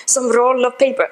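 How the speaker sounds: a stiff, badly placed mock German accent; a French accent that slips into German. Retelling the French landlord, the accent drifting to German. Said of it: "No, that's German".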